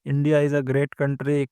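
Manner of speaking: slow, drawn-out mocking quote of western praise; mock quoting the West. Presenter mocking western leaders' praise of India, slow and sarcastic. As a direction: stretch it out, mildly sarcastic. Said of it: "कभी कहा जाता है".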